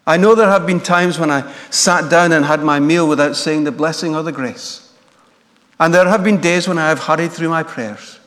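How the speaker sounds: a touch of the aggrieved tailor arguing; tailor's complaint. Retold or imitated. Tailor arguing with God, retold.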